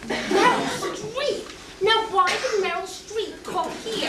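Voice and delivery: very slow, disbelieving question; drawn-out bafflement; incredulous. Acted. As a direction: stretch each word in astonishment. Astonished at absurd answer.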